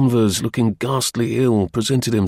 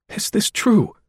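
much higher, astonished question; gasped; 12 semitones higher than usual. A narrator's reading. Danvers questioning Cray after fainting, gasping. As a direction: ask it as if gasping in disbelief. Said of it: "he gasped".

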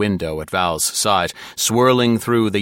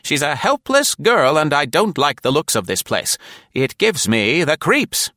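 put-on high, loud old woman, a little spooked; high elderly voice, uneasy and firm; fussy old lady; 9 semitones higher, 4 dB louder than usual. A narrator's reading. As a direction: grumble about the creepy place. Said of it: "Nora said firmly".

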